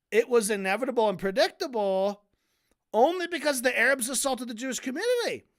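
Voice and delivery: imitated indignant comeback, pitch jumping at the end; mock an irritated man correcting the record; pissed-off retort. Historian insists on his version, mock pissed. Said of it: "now he's fucking pissed".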